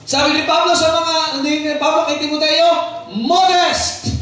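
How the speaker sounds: high, punchy pulpit proclamation; emphatic preaching. Real, not acted. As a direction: drive each phrase home to the congregation.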